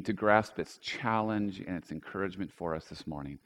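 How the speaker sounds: low, hushed congregational prayer; earnest, low-pitched opening prayer. Real, not acted. Leads a prayer.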